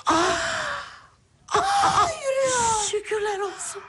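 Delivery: sobbing relief, high and breaking; crying with joy. Real, not acted. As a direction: weep with joyful gratitude. Mother sees child walk, cries.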